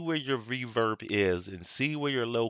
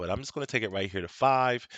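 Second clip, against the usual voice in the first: plain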